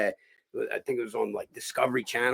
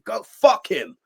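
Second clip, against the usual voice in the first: high-pitched heated refusal; angry dismissal; 10 semitones higher, 4 dB louder, much slower than usual. Retold or imitated. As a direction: brush off the apology, pitched up. Acts out refusing an apology.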